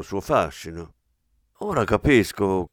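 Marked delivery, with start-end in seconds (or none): 1.6-2.7 knowing smile. Acted. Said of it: "con un sorrisetto complice".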